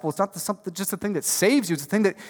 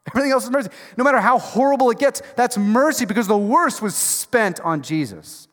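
higher and brighter, bursting with wonder; joyful exclaim; 6 semitones higher, 3 dB louder than usual. Real, not acted. Preacher marveling to the congregation, excited exclaim. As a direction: lift it like good news you can't hold in.

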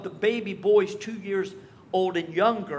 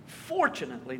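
dry sarcastic; 7 semitones lower, 4 dB quieter than usual. Shown as a demonstration. Preacher repeating the word low and deadpan for irony. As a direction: lower and softer, deadpan repeat.

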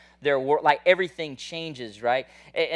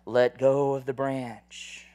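voice from heaven; 3 semitones lower, much slower than usual. Acted. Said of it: "a voice breaks out from the heavens".

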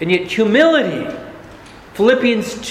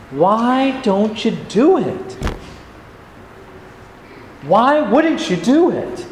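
gently urging a stubborn boss; lovingly coaxing; 3 semitones higher than usual. Retold or imitated. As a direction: coax him kindly, slowing at the end. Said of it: "lovingly coaxing his boss".

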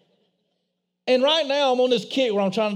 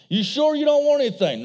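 mom's voice; 6 semitones higher than usual. Retold or imitated. Mom voiced in drive-thru story.

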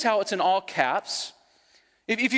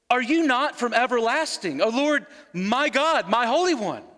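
scripture reading. Acted. Reading Habakkuk's prayer aloud.

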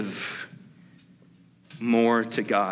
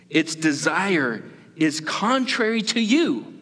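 God speaking; 4 semitones higher than usual. Acted. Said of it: "the Lord said to Cain".

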